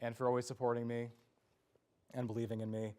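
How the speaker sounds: emotional farewell. Real, not acted. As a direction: hold back tears while saying goodbye. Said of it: "forgive me if I'm a little emotional".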